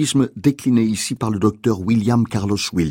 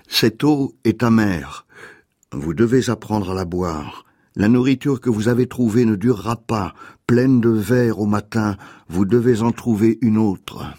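poem reading. Acted. Reads a poem aloud.

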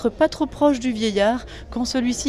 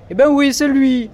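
louder, irritated retort; higher, louder irritated reply from Maurice; suddenly annoyed; 6 semitones higher, 5 dB louder than usual. Acted. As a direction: snap back, displeased. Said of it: "dit Maurice, tout à coup mécontent".

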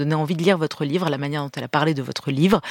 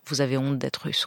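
hushed whisper; 6 dB quieter than usual. Real, not acted. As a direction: whisper it, barely voiced. Host sums up guest's shame.

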